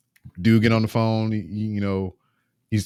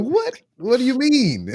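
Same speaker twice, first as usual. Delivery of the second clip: much higher, baffled squeak of a what; mock disbelief; 14 semitones higher than usual. Told he's not Shannon, hammed-up baffled disbelief. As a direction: play it up as totally baffled. Retold baffled reply to caller.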